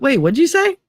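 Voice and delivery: mock surprised. Billy startled by her yes.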